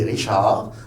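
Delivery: "Richard" the French way, REE-shar; French pronunciation. Shown as a demonstration. Teacher contrasting with the German name, French pronunciation. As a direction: say "Richard" with silent final D. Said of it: "En français, on dirait".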